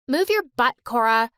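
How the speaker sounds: loud bossy command; bossy shout. Acted. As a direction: bark it at your sister. Captain barking at sister.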